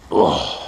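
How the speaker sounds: pained grunt from a tender rib; effort grunt. Real, not acted. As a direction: grunt with effort while digging. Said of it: "Sorry for all the grunting".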